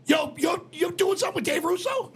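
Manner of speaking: mock amazed shout. Retold friend amazed.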